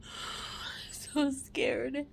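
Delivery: slow, whispered through tears; tearful whisper. Real, not acted. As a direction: barely get the words out.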